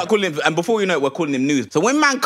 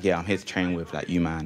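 new guy; 9 semitones lower, 8 dB quieter than usual. Retold or imitated. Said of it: "He's like".

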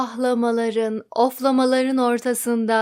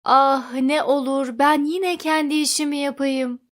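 wailing plea; 2 semitones higher than usual. Acted. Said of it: "aynı feryadı duydular".

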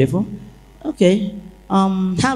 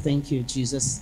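a soft prayer murmured under her breath; thanking Jesus quietly, to herself; inward thanks; 4 semitones lower, 9 dB quieter than usual. Retold or imitated. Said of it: "Right inside me".

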